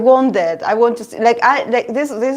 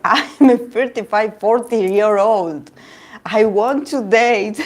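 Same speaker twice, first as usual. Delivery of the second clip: imitated tearful plea; 2 semitones higher, slower than usual. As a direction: plead slowly, half amused. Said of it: "The guy cried, remember?".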